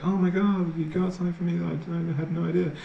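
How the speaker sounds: high-pitched put-on gift gasp; fake surprise. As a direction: gush with exaggerated, pretend surprise at a present. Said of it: "like, the fake".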